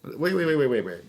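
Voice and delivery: high, loud disbelieving interruption; retold flustered objection; incredulous protest. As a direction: cut them off in disbelief. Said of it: "I was like".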